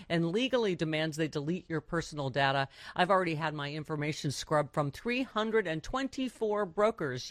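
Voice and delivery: lively, emphatic sponsor read. Real, not acted. Host pitches a data privacy service to listeners, ad read. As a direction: sell it with punched key words.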